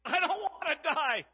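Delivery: loud, high and slow, desperate cry; panicked yell. Retold or imitated. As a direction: yell it out as if being chased. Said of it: "and he yells".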